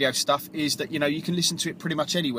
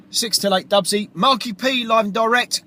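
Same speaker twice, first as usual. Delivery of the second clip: higher radio announcer call; 7 semitones higher, 3 dB louder than usual. Real, not acted. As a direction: announce yourself live on air. DJ announces himself on air.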